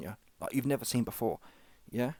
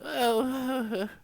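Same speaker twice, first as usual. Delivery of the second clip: mock whimper; 11 semitones higher than usual. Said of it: "He'll start talking like this".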